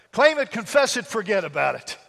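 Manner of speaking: loud slogan with a touch of New York; New York accent. Acted. Pastor giving his three-part slogan, light New York accent. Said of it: "I can't do a New York accent".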